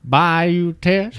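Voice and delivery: thick, mushy mouthful on the name; mouth full of peanut butter. Real, not acted. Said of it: "like he's got peanut butter in his mouth".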